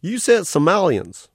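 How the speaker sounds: cartoon otter greeting a new arrival, all sugary cheer; carnival otter voice. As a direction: gush like a cute carnival mascot. Otter mishearing.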